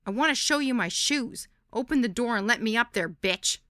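loud, high shout up to a balcony; calling up to a friend's balcony, shouting. A narrator's reading. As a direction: yell it up at her window. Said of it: "shouted up at her".

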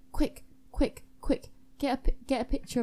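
short, urgent repeated calls; pressing, punchy urgency. Acted. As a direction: hurry them along, word by word. Urgent call for a picture.

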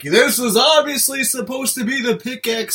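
slow, high, over-obvious narration; mock announcement. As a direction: draw it out like a slow-motion reveal. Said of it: "It's like".

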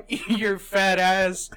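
slow, high, loud mock heckle; drawn-out shouted insult, imitating a prankster; retold yell. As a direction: holler it at the drive-thru. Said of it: "You have to yell something at the drive-thru".

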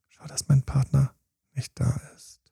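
thought trailing into an unvoiced whisper; fading whisper. Partner at the party, the nagging thought fading to a whisper. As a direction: let the thought sink to a whisper.

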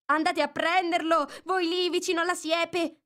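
high, loud bossy command; Rabbit giving orders. Acted. Rabbit ordering helpers by the hedge, loud and high. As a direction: order the others about like the Rabbit. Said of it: "e poi la voce del coniglio".

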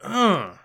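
high-pitched groan of disgust; exasperated groan. Real, not acted. Podcaster reacting to an awful character, exasperated groan.

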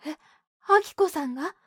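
startled high question; 驚いた声. Acted. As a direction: gasp it out in surprise. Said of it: "絹子の驚く声がした". (驚いて声を上げる)

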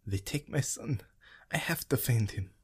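a mother begging strangers to find her son, pleading; desperate plea. A narrator's reading. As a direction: beg for help for her lost son.

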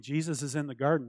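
normal talking voice

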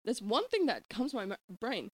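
lilting, swooping nanny; exaggerated up-and-down melody; Mary Poppins. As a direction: chide sweetly in sing-song. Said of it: "I'm Mary Poppins".

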